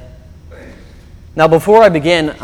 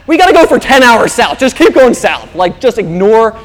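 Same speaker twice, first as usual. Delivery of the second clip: higher, louder mock insistence; husband telling his wife to ignore the signs, loudly; insistent husband; 4 semitones higher, 5 dB louder than usual. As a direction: push through, refuse to turn around. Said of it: "I say".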